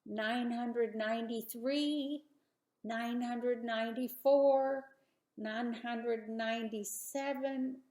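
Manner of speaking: slow, drawn-out counting. Acted. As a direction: count each number slowly. Abraham counting stars slowly.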